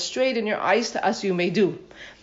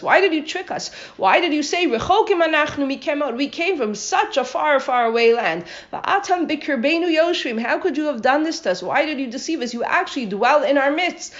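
indignant rebuke; 5 semitones higher than usual. Acted. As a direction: demand answers from the tricksters. Yoshua rebukes the deceiving Givonim.

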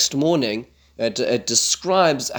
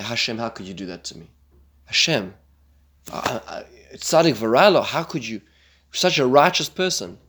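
lightly acted plaintive grumble; mock complaint to God. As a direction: sulk at God, mock wounded.

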